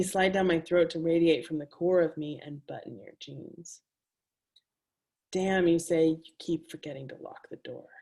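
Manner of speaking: measured, intimate poetry reading; reading her own words to a live audience; reading aloud. A narrator's reading. Author reading her erotic prose to an audience, intimate and measured.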